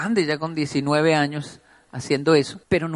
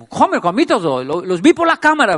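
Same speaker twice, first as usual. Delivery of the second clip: Japanese man, broken Spanish; 4 semitones higher, 8 dB louder than usual. Retold or imitated.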